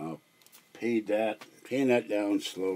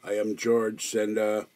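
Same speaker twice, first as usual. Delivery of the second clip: terrible Arnold Schwarzenegger imitation. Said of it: "This is my terrible Arnold Schwarzenegger imitation".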